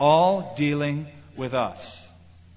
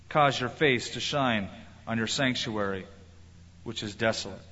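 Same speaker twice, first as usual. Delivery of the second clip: scripture reading. Acted. Reads Daniel's prayer aloud.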